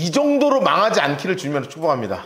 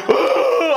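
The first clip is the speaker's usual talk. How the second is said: mock sob; 12 semitones higher, 4 dB louder than usual. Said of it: "하는데요".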